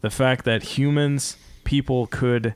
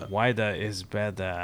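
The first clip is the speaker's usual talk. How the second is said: soft, lightly put-on commercial voice; hushed mock slogan read; imitated ad slogan; 3 semitones lower, 8 dB quieter than usual. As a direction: lightly mimic a car ad's tagline. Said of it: "I think that was Mazda".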